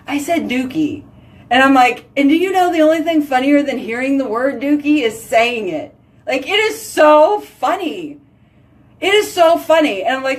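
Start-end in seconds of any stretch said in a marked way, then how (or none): 6.2-10.0 higher, laughing delivery; giggling. Real, not acted. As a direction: squeal with delight. Cracking up over the word.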